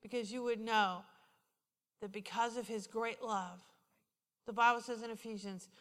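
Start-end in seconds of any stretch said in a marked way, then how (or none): 0.0-3.6 soft retold pleading with pauses; gentle earnest counsel. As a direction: tell it quietly and tenderly. Retold counsel continues softly.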